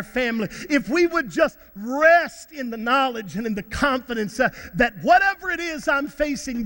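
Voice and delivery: emphatic preacher with stretched key words; impassioned preaching. Real, not acted. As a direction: proclaim it to a congregation. Preaching to the congregation.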